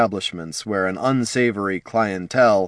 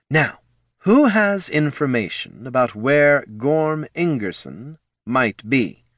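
pitched-up slow interrogation; slow demanding boss; 5 semitones higher, slower than usual. Acted. Flynn interrogating the assassins, slow and demanding. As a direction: demand an answer, slowly.

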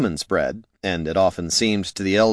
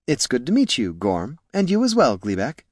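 lightly voiced, higher polite greeting; mild-mannered scribe; 3 semitones higher than usual. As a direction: greet new acquaintances as a courteous scribe.

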